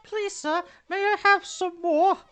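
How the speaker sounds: put-on very high pleading orphan child; Oliver Twist. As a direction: beg in a squeaky, put-on urchin voice. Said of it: "go for an Oliver Twist, sort of".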